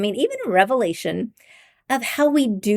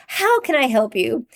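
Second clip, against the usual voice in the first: higher, eager-to-help office voice; octave-up greeting voice; 4 semitones higher than usual. Acted. Showing the voice for somebody at the office door, higher greeting voice. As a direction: lift the pitch to offer help. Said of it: "your voice changes an octave".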